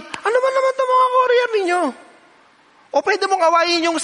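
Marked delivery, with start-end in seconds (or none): 0.0-1.8 much higher, louder mock outraged complaint. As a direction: rant at the courier company. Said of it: "Pwede ka tumawag sa company". (galit na pagrereklamo, mas mataas at malakas)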